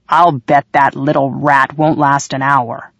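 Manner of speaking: muffled, slow, through a door. Acted. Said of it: "Marge's muffled voice said through the kitchen door".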